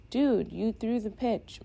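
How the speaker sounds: sharp angry yell across the bench. A narrator's reading. Teammate yells back at the pitcher blaming him, loud. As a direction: shout it at the teammate who blamed you. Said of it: "Malik yells".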